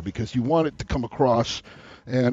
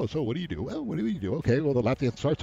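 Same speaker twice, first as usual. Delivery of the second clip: soft, lightly imitated chit-chat in a queue; softly mimicked polite chatter; mock small talk; 4 dB quieter than usual. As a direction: imitate people making idle small talk, quietly. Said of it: "they're all talking like this".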